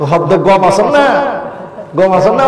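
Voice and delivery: Chittagonian greeting, গম for ভালো, rising question at না; Chittagong dialect. Shown as a demonstration. Preacher showing the crowd how Chittagong people greet, Chittagong dialect. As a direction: say গম আছেন না the Chittagong way with a lifted না. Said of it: "মানে ভালো আছেন তো?".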